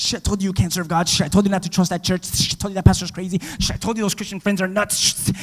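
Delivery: hissy, hurried mock naysayers; commotion of accusing voices. Voices around someone who failed, hissing I-told-you-so. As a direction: act out nagging voices, each opening on a hiss. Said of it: "just you hear commotion".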